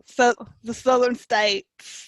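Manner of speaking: slow, badly faked Southern drawl; bad Southern accent. Friend jokes about loving the South, in a bad southern accent. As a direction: draw out a clumsy Southern accent. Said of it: "That was a really bad accent".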